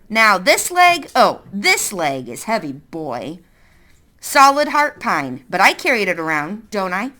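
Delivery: a hint of a stern woman; lightly voiced suspicious woman. Woman mocking boy.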